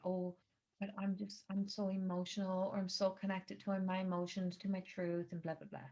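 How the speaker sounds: soft, fading mock of a self-pitying person; mocking the victim. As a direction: play the precious emotional one, half-hearted. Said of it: "play the theatrical of the victim ... the soft person".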